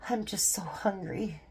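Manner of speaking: put-on slow breathy whisper of a pouting child; whiny kid whisper. Grandson pouting in the car, whispered whine. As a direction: mope it out in a small whisper. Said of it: "And he says".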